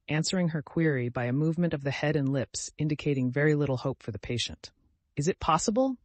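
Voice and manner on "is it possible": exclaiming. A narrator's reading. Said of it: "exclaimed Anna Mikhailovna".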